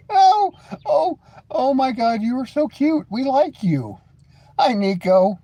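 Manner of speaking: put-on high, slow cutesy baby talk; sarcastic sweet talk to the angry viewer; mock cooing. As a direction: coo at him like he's a puppy.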